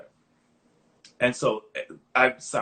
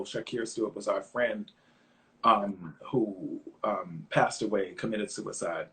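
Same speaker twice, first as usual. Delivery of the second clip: emotional; 6 semitones lower, 4 dB quieter, slower than usual. Real, not acted. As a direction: lower and softer, halting with ums as grief comes in. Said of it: "I'm getting emotional".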